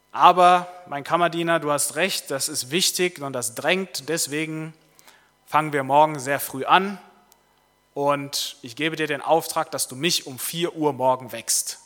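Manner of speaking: lightly voiced king giving a firm, loud order; emphatic king. King charging his valet with a dawn wake-up, emphatic. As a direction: lay down the order with weight. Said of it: "Und der König sagt".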